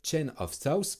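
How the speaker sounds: English words in a strong French accent; apologetic French-accented English. Real, not acted. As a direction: say Chain of Thoughts the French way. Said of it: "pardonnez-moi pour mon accent anglais".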